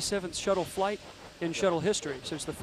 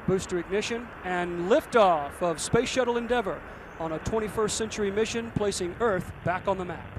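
excited liftoff call; 2 semitones higher, 5 dB louder than usual. Real, not acted. Liftoff call on live broadcast.

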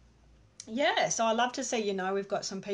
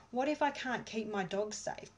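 anxious voiced; 2 semitones higher than usual. Shown as a demonstration. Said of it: "tapping through all your fear".

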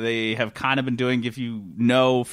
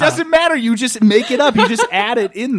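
laughing; 8 semitones higher, 6 dB louder than usual. Real, not acted. Laughing at sports ignorance.

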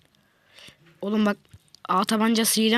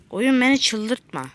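exasperated plea; 4 semitones higher, slower than usual. Real, not acted. Repeats line, louder first.

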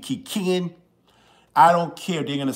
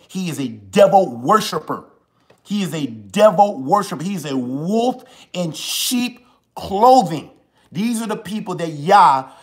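heated, rising denunciation, slowing to spit out the words; real anger building as he condemns; heated preacher-style accusation; worked up; 3 semitones higher, 4 dB louder than usual. Real, not acted. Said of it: "Let me calm down".

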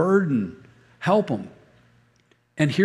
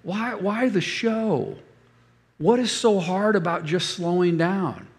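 higher, slow, put-on wife voice; wife's exasperated voice; 3 semitones higher than usual. Wife asks husband, slow and exasperated. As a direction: drag it out, exasperated. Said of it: "And she goes".

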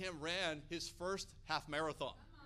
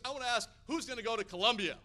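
raised, rousing question to the room; rallying call; 3 semitones higher, 6 dB louder than usual. Retold or imitated. Preacher rallying church leaders, loud rousing question. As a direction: fire up the crowd with a loud ask. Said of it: "He goes".

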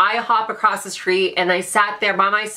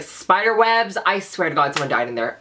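usual speaking voice

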